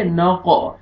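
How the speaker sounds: नक़ with a thick, bouncing q; heavy qaf. Shown as a demonstration. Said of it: "क़ाफ को मोटा करके पढ़ेंगे". (नक़ में क़ाफ मोटा, क़लक़ला के साथ)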